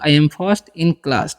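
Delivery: very slow, word by word; spelled-out dictation pace; slow model reading. Shown as a demonstration. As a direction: say each word slowly for the class to copy. Teacher repeats model sentence.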